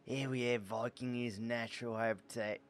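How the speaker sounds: a too-light Attenborough documentary hush; David Attenborough impression. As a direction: try a wildlife narrator and miss the depth. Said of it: "Too shrill".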